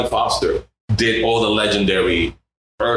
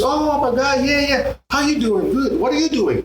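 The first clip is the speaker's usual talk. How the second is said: excited Jorge. Retold or imitated. Jorge voiced in story.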